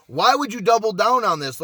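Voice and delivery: why, sound baffled at the stupid bet; incredulous outburst. Retold or imitated. Pit boss mocks the drunk player's double down, incredulous.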